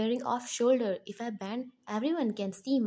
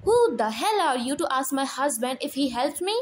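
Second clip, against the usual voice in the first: loud, much higher and fast tirade; furious shout; 6 semitones higher, 5 dB louder, faster than usual. Acted. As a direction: scream back at the old man. Wife yells at father-in-law.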